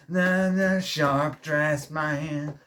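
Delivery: hammed-up American drawl, slow and sung; a lightly voiced American accent, stretching the words; mock American rock singer accent; American accent impression. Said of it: "That's my American accent impression".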